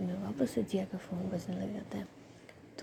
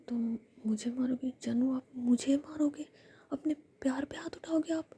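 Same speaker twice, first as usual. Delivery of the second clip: lightly raised whispered whine; mock hurt pleading; 5 semitones higher than usual. Rui pleading with Jiya, whispered mock hurt. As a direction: play wounded, half teasing.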